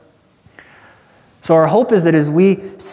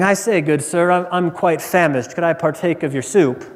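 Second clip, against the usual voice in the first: mock-polite British gentleman; understated, very proper British request; British accent. Polite man asking for soup, British accent. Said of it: "not of a man saying".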